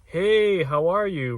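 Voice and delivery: Hey jumps up high then settles; high bright greeting. Retold or imitated. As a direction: pop the Hey up high, friendly. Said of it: "Or are they coming off like".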